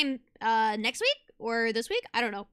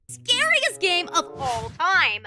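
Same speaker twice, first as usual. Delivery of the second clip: dramatic shout; 4 semitones higher, 5 dB louder, slower than usual. Acted. Dramatic game intro shout.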